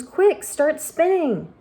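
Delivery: high, slow, pressing order; urgent command. Acted. James urging the tired silkworm, a high slow yell. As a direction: hurry her with every word. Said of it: "yelled James".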